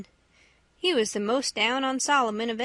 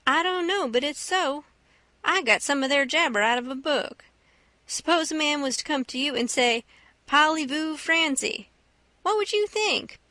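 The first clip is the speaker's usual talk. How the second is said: lightly voiced boy, pitched up; a hint of curious storytelling; Huck explaining to Jim; 4 semitones higher than usual. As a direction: put the puzzle to a friend, a little higher.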